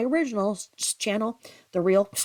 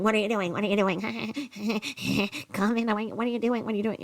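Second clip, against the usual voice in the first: mock pestering; 3 semitones higher than usual. Imitates wife pestering him on camera.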